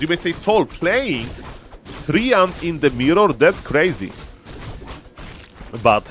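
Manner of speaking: lively play-by-play commentary; esports caster. Acted. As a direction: call the match like a caster. Casts the esports game live.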